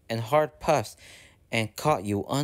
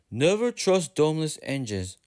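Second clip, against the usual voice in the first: higher, 'domeless engines' said as a warning; dark warning; 4 semitones higher than usual. Acted. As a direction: warn against domeless engines. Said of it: "said Gordon darkly".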